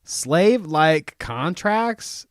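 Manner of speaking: disbelieving echo; incredulous. Real, not acted. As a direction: stretch it out in disbelief. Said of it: "I didn't hear anything like that".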